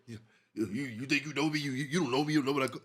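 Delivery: quietly stammering imitation of Frank; bad Frank rendition. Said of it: "That was a bad rendition".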